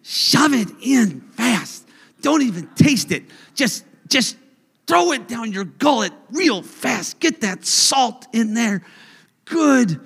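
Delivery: King Stomach urging. Acted. Voicing King Stomach urging eating.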